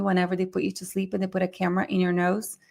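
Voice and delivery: hurried, running explanation; speaking too fast. Real, not acted. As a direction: rush through the explanation. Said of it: "Am I speaking too fast".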